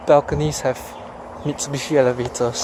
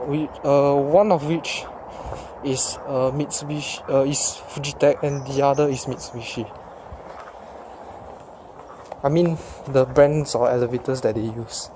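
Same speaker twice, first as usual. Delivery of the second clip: talking through a face mask; muffled, mask over the mouth. Real, not acted. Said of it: "sorry for the muffled voice, as I'm wearing a mask".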